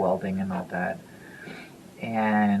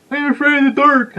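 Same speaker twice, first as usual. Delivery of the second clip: high, loud mocking yell; 12 dB louder than usual. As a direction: taunt the dark like a scared kid, mockingly. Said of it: "kind of like a mocking voice".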